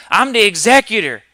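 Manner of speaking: mock proud client. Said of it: "Then they get it mixed up".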